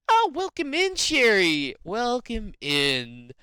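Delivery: high, loud, bright "welcome in" that slows at the end; excited greeting. Real, not acted. Streamer welcoming a viewer called Cherry, excited. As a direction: greet the viewer with a big happy lift.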